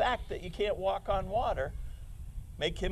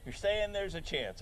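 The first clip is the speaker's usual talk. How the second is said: movie quote; 4 dB quieter than usual. Retold or imitated. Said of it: "When he said".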